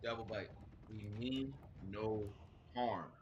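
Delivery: slow, low, softened in-character plea; peaceable appeal. Acted. X offering peace to Devil Bite after dropping daggers, gentle appeal. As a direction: say it softly, with measured pauses.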